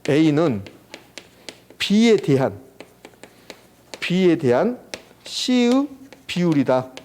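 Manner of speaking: slow, phrase-by-phrase model reading; reading demonstration. Shown as a demonstration. Teacher showing students how to read a fraction, slow reading demonstration. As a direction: read it out slowly with long gaps between phrases. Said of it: "요거 읽을 때 이렇게 읽는 거예요".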